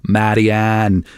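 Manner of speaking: "Marianne" in a rough Dublin accent. Shown as a demonstration. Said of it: "in the Dublin accent it's Marianne".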